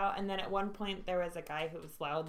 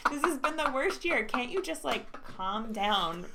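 exasperated; 2 semitones higher, 5 dB louder than usual. Retold or imitated. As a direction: beg them to chill out. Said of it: "I'm like".

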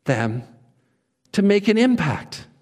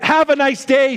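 put-on British accent; 5 semitones higher than usual. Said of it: "don't choose the British voice".

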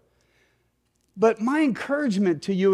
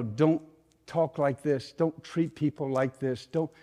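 gentle correction; 5 dB quieter than usual. Acted. Voices the Word's gentle correction.

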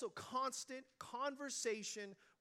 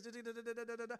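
droning da da; faster than usual. Retold or imitated. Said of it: "we're hearing this".

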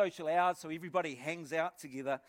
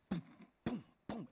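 imitated heartbeat; 8 dB quieter than usual. Man acting out his racing heart, imitated heartbeat. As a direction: voice a muffled pounding heart. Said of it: "I could feel my heart".

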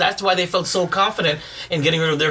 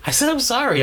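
angry apology; 7 semitones higher than usual. Real, not acted. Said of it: "That's a fake apology".

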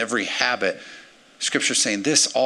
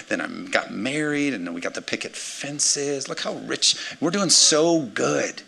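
smug self-satisfied Christian. Retold or imitated.

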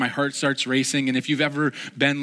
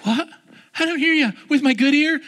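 mock shout; 11 semitones higher, 5 dB louder than usual. Taunting a tree, playful shout.

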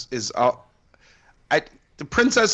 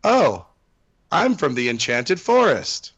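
dreamy princess; slower than usual. Retold or imitated. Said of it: "all she says was".

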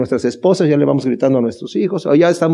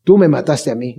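lower, faded repeat of the accusation; echoed mock yell; 4 semitones lower than usual. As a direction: let the cry fall away. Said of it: "Judas le grita".

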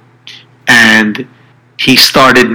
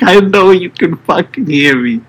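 through gritted teeth; 5 semitones higher than usual. Retold or imitated. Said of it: "he's screaming this into his cell phone".

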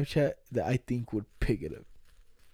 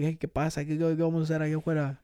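fast, rattled-off Spanish parrot chatter; parrot rattling Spanish; 3 dB quieter, faster than usual. Retold or imitated.

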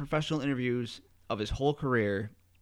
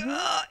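higher-pitched phony ugh; fake pained groan. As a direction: groan like a bad heart-attack faker. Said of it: "he was really fake".

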